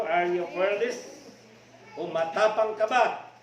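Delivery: fearless lifted loud with a rising end; stirring preacher challenge; rousing question. Shown as a demonstration. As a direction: fire it at the congregation. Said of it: "Matapang ba tayo?".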